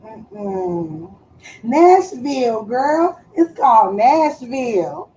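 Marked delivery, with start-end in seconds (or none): 1.6-5.1 louder, drawn-out Nashville; excited remembering. Real, not acted. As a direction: announce it like a victory. Finally remembers the show.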